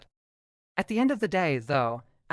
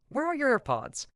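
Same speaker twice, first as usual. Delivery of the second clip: higher, urgent, as if just ran over; breathless retold question; 8 semitones higher than usual. Friend ran over to ask about AirPods, mock breathless. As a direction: ask it like you sprinted to get here. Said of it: "came running over all out of breath".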